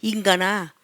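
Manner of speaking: God's rebuke. Retold or imitated. God answering Moses, low stern rebuke. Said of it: "했더니".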